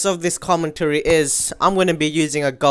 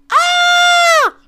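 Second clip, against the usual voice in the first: long, very high, loud shriek; frustrated scream; 7 dB louder than usual. Real, not acted. Gamer loses connection mid-match, long frustrated scream. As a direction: scream it out and hold it.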